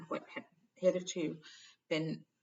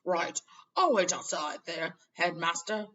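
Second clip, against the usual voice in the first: embarrassed Hagrid; 9 dB louder, slower than usual. A narrator's reading. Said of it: "stomped out looking embarrassed".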